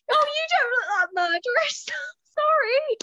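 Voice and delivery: high, loud line through laughter; laughing. Acted. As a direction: crack up mid-line.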